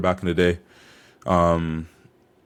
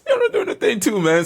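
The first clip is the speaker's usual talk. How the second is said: inner voice; 14 semitones higher than usual. Retold or imitated. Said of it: "I was just like".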